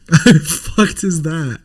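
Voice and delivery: slow, laughing; amused disbelief drawn out. Real, not acted. Streamer repeating his question to chat, laughing.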